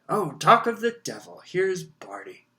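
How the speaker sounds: a cheerful man spotting a friend; jovial official voice. Acted. Bagman greets Crouch.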